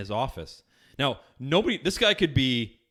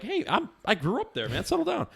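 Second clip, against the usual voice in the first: exasperated plea; 11 semitones higher than usual. Retold or imitated. Pleading with the rowdy fans.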